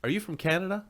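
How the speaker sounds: lightly voiced curious stranger, pitch lifting high. Stranger asking a vacationer where they are from, lightly acted curiosity. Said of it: "and someone says".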